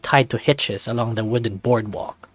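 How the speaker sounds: even, clear storyteller voice; story narration. A narrator's reading. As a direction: paint the morning scene for the listener. Narrates arrival at the dock.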